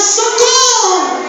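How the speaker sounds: drawn-out, high mock call for help; mock drowning man crying out, stretched and high; hammed-up cry for help. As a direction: wail socorro like a drowning man. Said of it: "ele gritava".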